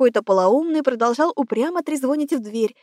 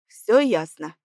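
ниже, мужским голосом Одинцова, «всё ясно» с нажимом; как строгий начальник, ставящий диагноз; Одинцов, мрачно; 5 semitones lower, slower than usual. A narrator's reading. Одинцов смотрит на градусник. (Одинцов мрачно читает градусник)

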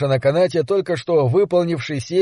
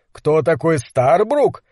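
incredulous echo; slower than usual. Acted. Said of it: "переспросил Гэлен".

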